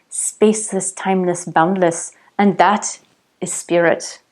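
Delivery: a light, bad fake Indian accent on a wise guru; hammed-up Indian guru voice, barely shifted. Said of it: "I did that with a little bit of a fake Indian accent".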